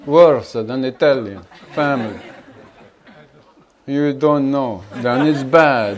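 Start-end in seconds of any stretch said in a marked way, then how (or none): 4.9-6.0 slow, louder words broken by laughter; laughing. Real, not acted. Teacher laughing to his listeners about Italian families. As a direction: laugh your way through the verdict.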